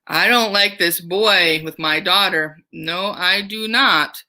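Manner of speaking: slow, stern "No, I do not"; teacher as Sulpice disliking the boy with his daughter; lightly voiced disapproving father. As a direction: grumble like a protective dad. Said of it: "he's like".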